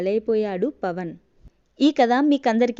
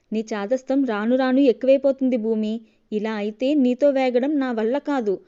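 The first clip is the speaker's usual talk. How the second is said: exasperated; 4 dB louder than usual. Acted. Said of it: "అన్నాడు విసుగ్గా".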